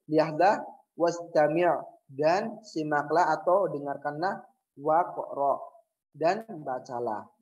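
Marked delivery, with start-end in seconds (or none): 1.0-1.7 wastami' run together with no glottal start; joined hamzat wasl. Shown as a demonstration. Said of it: "Ingat di sini itu wastami'". 4.8-5.6 waqra run together, hamza silent; joined hamzat wasl. Shown as a demonstration. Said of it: "bukan, tetapi waqra".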